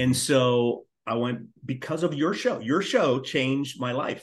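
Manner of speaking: slow, heartfelt thanks; sincere thanks. Real, not acted. Fan slowly thanking the writer who changed his life. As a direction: lay each word down slowly and sincerely.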